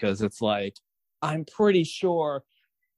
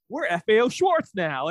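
mock proud boast; 6 semitones higher, 5 dB louder than usual. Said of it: "it's like".

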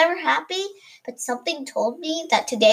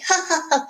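laugh; 4 semitones higher than usual. A narrator's reading.

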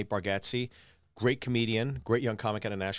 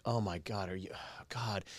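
dad quietly aghast at the ruined ball; imitating father's hushed horror; hushed dismay; 2 semitones lower, 8 dB quieter than usual. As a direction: voice sinking to a stunned whisper. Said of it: "He's like".

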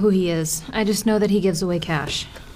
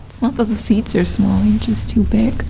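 louder snide put-down, whispered at the end; snide insult; 3 semitones lower, 4 dB louder than usual. Acted. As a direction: sneer the insult under your breath. Rude remark to seatmate.

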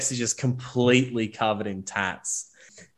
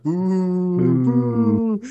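mock crowd boos, louder; crowd booing; 7 semitones higher, 5 dB louder than usual. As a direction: jeer like a whole hostile crowd. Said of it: "Everyone's like".

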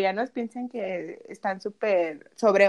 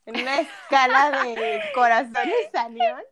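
imitating co-host; 3 semitones higher than usual. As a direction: parody her host voice. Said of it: "¿Me estás imitando?".

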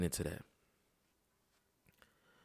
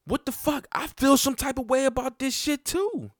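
much higher pitched heated yell; retold yelling. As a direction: cry out how hurt you are. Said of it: "I'm yelling at my shorty".

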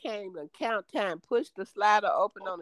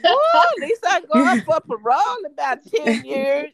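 retold relief; 6 semitones higher, 6 dB louder than usual. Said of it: "I was like".

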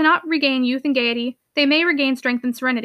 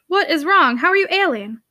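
exasperated concern; 4 semitones higher than usual. Acted. Uncle questions ailing niece.

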